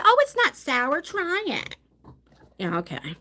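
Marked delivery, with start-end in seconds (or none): 0.0-1.8 high, coaxing mock voice; sing-song fake reassurance; mocking sweet lie. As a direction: tease it like a sweet little lie. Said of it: "they lie to me and say".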